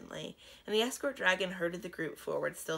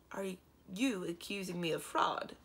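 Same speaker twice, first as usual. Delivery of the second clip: mildly. Acted. Dragon king questioning Warog, mild calm. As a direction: ask it gently but pointedly. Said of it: "Kazul asked mildly".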